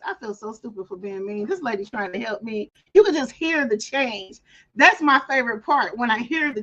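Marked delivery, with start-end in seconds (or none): 0.1-2.7 softer, ashamed inner voice; a touch of regret, hushed; mild sheepish murmur. Retold or imitated. Imitating humbled caller, quietly sheepish. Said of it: "in her voice".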